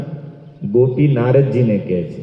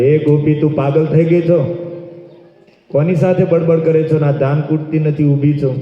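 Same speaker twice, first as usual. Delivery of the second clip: mother-in-law's shout; 4 semitones higher than usual. Acted. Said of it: "સાસુએ બૂમ પાડી".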